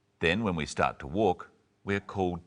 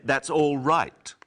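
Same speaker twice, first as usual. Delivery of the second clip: loud, slow and higher "That's all right"; mock shout; 7 semitones higher, 7 dB louder, slower than usual. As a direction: spell it out loudly for a deaf listener. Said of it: "There's no need to shout".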